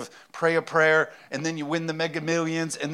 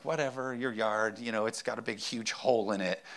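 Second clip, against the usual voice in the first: dismissive wife; 3 semitones lower, 6 dB quieter than usual. Retold or imitated. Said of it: "Jess doesn't take it very serious".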